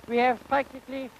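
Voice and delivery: usual speaking voice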